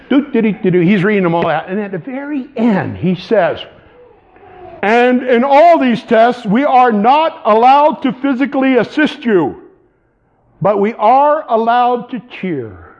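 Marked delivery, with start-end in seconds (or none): 4.8-12.9 a hint of a grave funeral director; serious funeral director. A mild solemn captain reading rules to the recruits.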